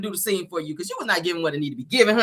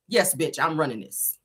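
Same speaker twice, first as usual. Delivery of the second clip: low, soft, sexy purr; sultry demo; 6 semitones lower, 8 dB quieter, slower than usual. Shown as a demonstration. Vlogger showing Tisha how to be sexy, low and sultry. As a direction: purr it low like you own the room. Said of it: "this is how you do it".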